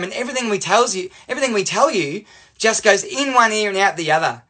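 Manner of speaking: angry teacher. Retold or imitated. House teacher telling off student for doing nothing, angry. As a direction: hammer out a teacher's list of complaints. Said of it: "She got angry".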